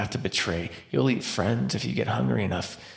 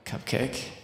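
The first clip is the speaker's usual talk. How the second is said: whispered question; 2 semitones higher, 6 dB quieter than usual. Acted. Hunter walking away.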